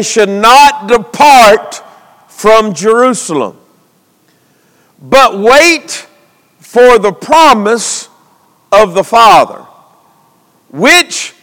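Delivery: scripture preached in deliberate phrases; preaching. Real, not acted. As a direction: read out the verse and call for answers.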